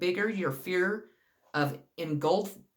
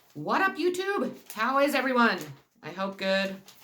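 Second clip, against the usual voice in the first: mild half-yell, pitched up; 5 semitones higher than usual. Greeting YouTube viewers at the start of a video, yelling. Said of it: "I don't know why I'm yelling".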